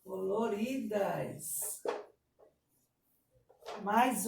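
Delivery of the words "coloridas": slow, even "Coloridas"; syllable-by-syllable dictation. Shown as a demonstration. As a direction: dictate "Coloridas" slowly for copying. Teacher dictates word by syllables.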